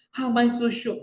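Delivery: preacher challenging the listeners, loud; emphatic question. Acted. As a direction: throw the question at the crowd.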